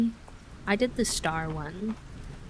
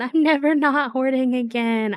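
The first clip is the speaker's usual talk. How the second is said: laughing; 5 semitones higher, 7 dB louder than usual. Real, not acted. Laughing at own hoarding.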